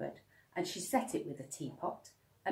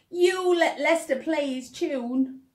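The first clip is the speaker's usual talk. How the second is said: put-on much higher, louder sulky girl; whining girl; 12 semitones higher, 11 dB louder than usual. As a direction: whine that it's not fair. Laura complaining jealously.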